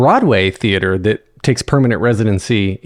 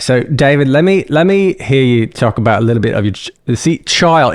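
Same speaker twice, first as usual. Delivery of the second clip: shaky-vowelled Australian accent attempt; amateur Australian accent. Shown as a demonstration. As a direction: try Australian, stumbling on the I in "child". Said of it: "It's the I that messes me up".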